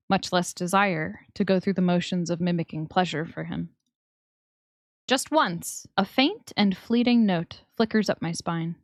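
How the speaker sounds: measured first-person narrator; story narration. A narrator's reading. Narrator describes the man towering over her, story narration. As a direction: read it as intimate story narration.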